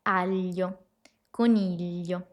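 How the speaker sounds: "Aglio" and "coniglio" with a light L before the GL, like "al-lio". Shown as a demonstration. Teacher showing the tip of an L before the sound, careful model. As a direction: slip a small L in before the GL. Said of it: "podés imaginarte una L antes del sonido".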